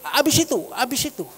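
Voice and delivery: quick, high eager prompting; very enthusiastic. Retold or imitated. Eager listener urging the pastor's story on, excited and quick. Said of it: "wih, antusias sekali".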